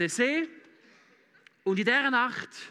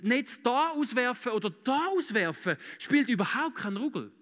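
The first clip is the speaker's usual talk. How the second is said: proud, affronted; 4 semitones higher than usual. Acted. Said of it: "Wenn du stolz bist".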